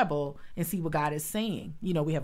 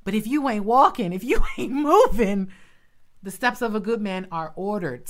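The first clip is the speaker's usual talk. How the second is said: louder, higher, rising fervour; excited preaching; 4 semitones higher, 8 dB louder than usual. Real, not acted. Excited preacher urging the listeners to keep moving. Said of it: "Whew, I'm getting excited".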